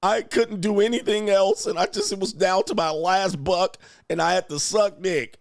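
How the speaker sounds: hammed-up desperate woman excuse; mocking whiny excuse. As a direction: whine the excuse in a mocking falsetto. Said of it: "There's no".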